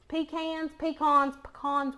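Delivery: Pecans said as pee-CANS, then pee-KAHNS, then puh-KAHNS; pecan pronunciations. Shown as a demonstration. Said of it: "however you say 'em".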